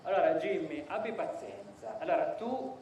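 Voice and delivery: composed, measured request in the speaker's own register; calm demonstration. Shown as a demonstration. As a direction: ask firmly but without any anger. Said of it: "faccio un esempio, poi tu fai come".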